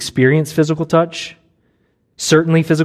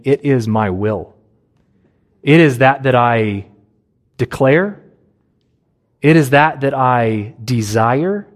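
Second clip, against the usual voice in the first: emphatic, authoritative; 3 semitones lower than usual. Shown as a demonstration. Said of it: "This statement is emphatic. It's authoritative".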